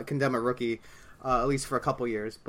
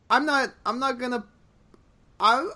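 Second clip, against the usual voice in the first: hesitant, squeaky-high stalling; high-pitched; 10 semitones higher, 4 dB louder than usual. Real, not acted. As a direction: voice jumping up high mid-thought. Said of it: "you just got high pitched".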